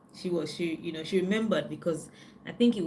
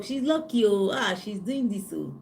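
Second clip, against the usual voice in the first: mocking gossips; 2 semitones higher than usual. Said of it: "belief system that it is luck".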